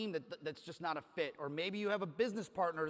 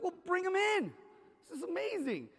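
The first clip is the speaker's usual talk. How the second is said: excited; 10 semitones higher than usual. Retold or imitated. His own excited reply retold.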